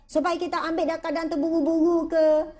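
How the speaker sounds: ordinary talk, nothing marked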